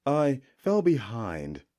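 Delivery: slow, meek humble priest; a lightly voiced humble priest. Amana posing as priest to warrior, lightly humble. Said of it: "taking on the persona of a humble priest".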